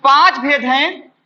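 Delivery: slowed right down, each word given weight; slow, deliberate teacher answer; slow emphatic answer. Shown as a demonstration. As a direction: spell out the answer slowly so it sticks. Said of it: "स्वर संधि कितने भेद हैं?".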